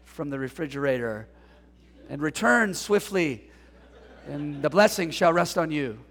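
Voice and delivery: hint of a stern biblical father, ending in a laugh; mock King James father. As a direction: intone it like a pompous old patriarch. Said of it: "be subjected to King James".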